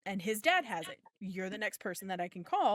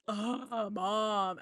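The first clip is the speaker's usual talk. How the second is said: exasperated preteen son. Retold or imitated. Twelve-year-old son groaning at his mother's odd request, exasperated. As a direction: imitate a whiny twelve-year-old's groan. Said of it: "That sounds like him".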